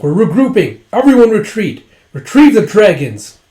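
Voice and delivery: loud, high retreat call; retold urgent command; acted commander's orders. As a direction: shout orders across a battlefield.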